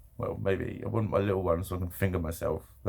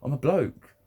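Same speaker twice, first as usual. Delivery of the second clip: ordinary talk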